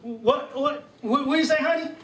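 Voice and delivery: mock confused grandpa fumbling for what was said; birthday man playing deaf to his wife's greeting; hard-of-hearing old man. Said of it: "to Jack Hadley".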